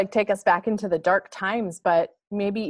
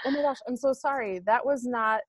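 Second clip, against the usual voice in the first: flustered apology; 5 semitones higher than usual. Retold or imitated. Apologizing to kid, high mock voice.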